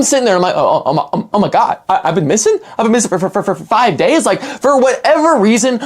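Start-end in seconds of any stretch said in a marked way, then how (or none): 0.6-4.3 stuttering, mock-panicked disbelief; stunned stammering. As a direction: stammer it out as if it's just sinking in. Retells his dawning panicked disbelief.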